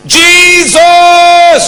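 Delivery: high, loud drawn-out cry; full shout. Shown as a demonstration. Preacher demonstrates shouting to the congregation, long yell. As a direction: send the name ringing out.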